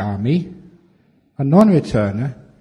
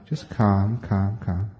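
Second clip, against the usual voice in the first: soothing calm; 5 semitones lower, 4 dB quieter, slower than usual. Shown as a demonstration. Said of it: "You can say".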